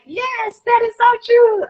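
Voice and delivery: high-pitched gushing agreement, imitating colleagues; enthusiastic agreement. Clinician imitating other clinicians cheering her on, excited and high. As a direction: squeal it like a delighted fellow clinician. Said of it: "It's just like other clinicians are like".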